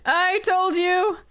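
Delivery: exasperated exclamation; exasperated exclaim. Real, not acted. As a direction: snap it at the screen. Repeats at the screen.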